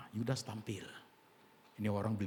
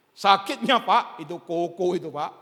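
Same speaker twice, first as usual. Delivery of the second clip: pained exclamation; 10 semitones higher, 14 dB louder, slower than usual. Retold or imitated. Voicing hurt complainer.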